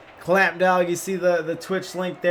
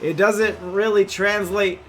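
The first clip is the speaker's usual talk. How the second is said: play-by-play. Acted. Live play-by-play casting.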